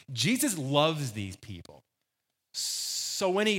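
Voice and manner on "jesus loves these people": slow, deliberate stress on LOVES; emphatic reiteration. Acted. Preacher as John reassuring readers before continuing, emphatically. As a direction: reiterate it slowly, leaning on loves. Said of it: "I need to reiterate the fact".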